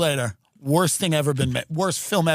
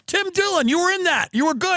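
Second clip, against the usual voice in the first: fan's voice; 12 semitones higher than usual. Retold or imitated. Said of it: "Somebody went".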